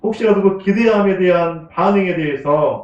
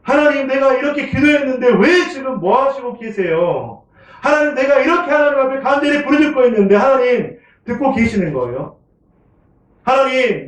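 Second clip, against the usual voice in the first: mock protest pitched high, pleading; complaining to God; 8 semitones higher than usual. Pastor acting out a believer protesting unanswered prayer, high and aggrieved. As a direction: act out demanding answers from God in a high, aggrieved voice. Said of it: "혹시 그렇게 따져보신 분".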